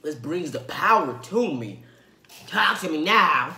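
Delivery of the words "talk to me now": slow deliberate delivery; slow drawn line. Pretend. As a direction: draw "Talk to me now" out slowly. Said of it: "this makes me wanna do".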